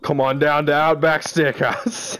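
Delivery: half-hearted Australian ad voice; badly faked Australian invitation; failed Australian accent. Friend's last try at the steakhouse advert, in weak Australian accent. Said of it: "I can't do it".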